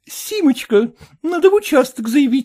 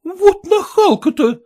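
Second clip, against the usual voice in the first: irritated; 2 semitones higher than usual. Acted. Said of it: "раздражённо проговорила".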